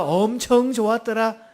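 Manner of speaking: slow Chungcheong drawl; Chungcheong dialect. Shown as a demonstration. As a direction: take your time in light Chungcheong dialect. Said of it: "충청도 버전 들어갑니다". (느릿한 충청도 사투리)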